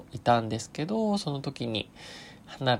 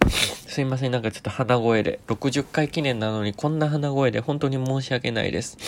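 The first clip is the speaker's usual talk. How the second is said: stuffy, congested nasal voice; blocked nose voice. Real, not acted. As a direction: speak through a blocked nose.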